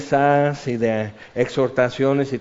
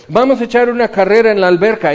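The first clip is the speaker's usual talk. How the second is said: eager; 6 semitones higher, 7 dB louder, faster than usual. Retold or imitated. Quoting an eager swimmer.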